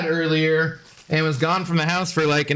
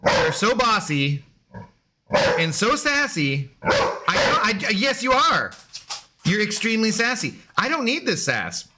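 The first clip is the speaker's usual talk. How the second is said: mock scolding; 5 semitones higher than usual. Real, not acted. Scolding the sassy dog.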